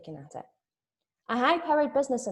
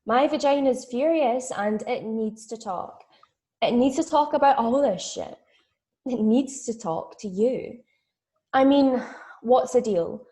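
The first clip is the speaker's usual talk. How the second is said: indignant, building, louder complaint; acted outrage, getting louder as it goes; angry rant; 5 dB louder than usual. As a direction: launch into a furious, emphatic tirade. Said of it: "My vagina's angry. It is. It's pissed off".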